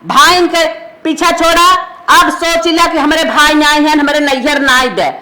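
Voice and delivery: firm, cross orders; stern, emphatic telling-off; angry scolding. Acted. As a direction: lay down the law to an unwanted daughter. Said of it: "माई काहे हमसे तो इतना गुस्सा करत हो".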